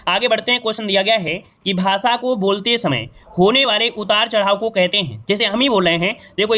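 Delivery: ordinary delivery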